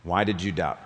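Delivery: soft, gentle rebuke; merciful tone. Shown as a demonstration. Pastor voicing Jesus gently asking Peter, merciful tone. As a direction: ask it with mercy, not harshness. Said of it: "I'm hearing it in a merciful tone".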